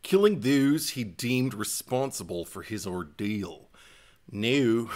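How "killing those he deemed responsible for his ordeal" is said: put-on Minnesota accent. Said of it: "it was almost like Minnesota".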